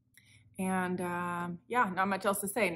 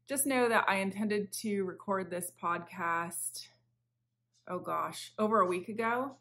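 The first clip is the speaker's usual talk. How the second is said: whisper. Real, not acted. Whispered aside about recording.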